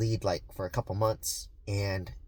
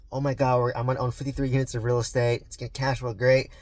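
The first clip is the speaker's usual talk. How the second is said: excited retelling; 2 semitones higher, 3 dB louder than usual. Retold or imitated. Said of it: "I was so ecstatic".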